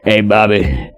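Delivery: folksy country reminiscing; country accent. Shown as a demonstration. Asking Bobby to remember a touchdown, country accent. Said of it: "talking in a country accent".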